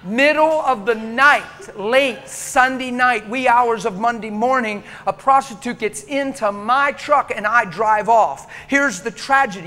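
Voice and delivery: loud, slow, laughing buildup; loud, slow, amused preaching climax; excited preaching. Real, not acted.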